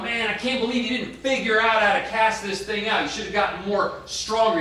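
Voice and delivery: mock exasperated Jesus. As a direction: play a fed-up teacher, hammed-up. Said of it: "He's not going".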